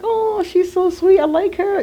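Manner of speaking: high, giddy crush voice; blushing. Retold or imitated. Telling the audience about a crush, blushing high voice. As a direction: gush like a smitten teen. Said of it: "really blushing".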